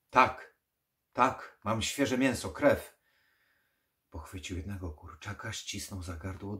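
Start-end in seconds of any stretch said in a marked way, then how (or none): 0.1-3.0 loud, higher eager offer; eager and desperate. Acted. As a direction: grab the last chance. Clutching at last hope.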